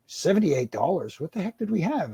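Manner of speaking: mock astonishment at a bill; retold disbelief. Diners getting a seventy-eight dollar bill, incredulous.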